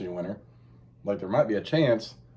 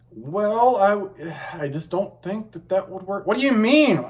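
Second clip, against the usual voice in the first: higher, louder mock back-and-forth; quoting the argument; 9 semitones higher, 4 dB louder, slower than usual. Retelling an argument with his wife, mock bickering. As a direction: play both sides of the argument lightly. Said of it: "and I'm like".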